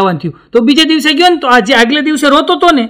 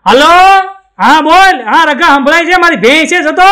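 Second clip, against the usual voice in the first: higher, louder, as if shouting down a string phone; tin-can phone voice; 4 semitones higher, 3 dB louder than usual. Retold or imitated. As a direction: call across the tin-can line. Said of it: "આવો અવાજ આવે". (ડબલાના phone જેવો અવાજ)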